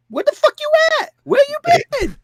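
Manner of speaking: put-on high, fast, nagging girlfriend voice; a very high mock nag; nagging Tina. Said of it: "she's just nagging him nonstop".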